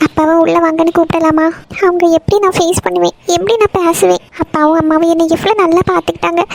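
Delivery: mildly tearful self-reproach. Acted. Daughter regretting she betrayed her parents, tearful. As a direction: hold back tears while blaming yourself. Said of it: "எதுக்குமா அழுதுட்டு இருக்க".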